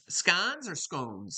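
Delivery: first scones short o like gone, then scones long o like cones; two ways of scones. Shown as a demonstration. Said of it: "that's how they say it".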